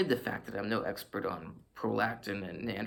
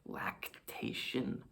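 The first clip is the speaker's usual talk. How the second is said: whispered; 7 dB quieter, much slower than usual. Shown as a demonstration.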